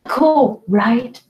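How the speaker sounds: high, loud call of cool; dad calling out to his daughter across the yard, loud. Acted. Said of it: "Yell across the yard to my daughter".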